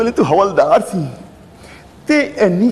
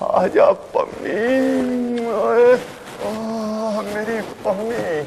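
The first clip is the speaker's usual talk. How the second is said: lovestruck swoon; 2 semitones higher, 4 dB quieter than usual. Acted. Swooning over Pammi.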